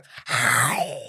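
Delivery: long breathy dragon exhale; fire breath hiss. Acted. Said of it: "that was fire".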